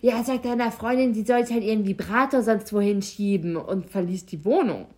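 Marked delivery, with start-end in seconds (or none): 0.0-3.5 mildly indignant, louder retelling; a touch of mock outrage; retold indignation. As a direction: imitate an annoyed man telling someone off. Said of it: "er meinte nur so erbost".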